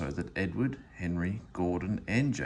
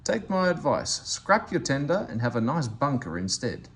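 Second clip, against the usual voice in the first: lightly voiced cocky Thomas teasing Gordon; cheeky Thomas; 3 semitones higher than usual. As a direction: poke fun at the big engine.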